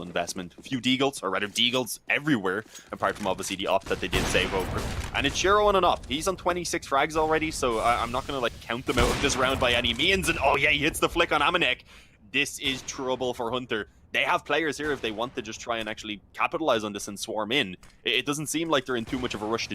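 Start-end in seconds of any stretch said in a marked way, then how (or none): 5.1-14.8 excited, higher live play-by-play call; esports caster. Real, not acted. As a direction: build the hype as Shiro takes over.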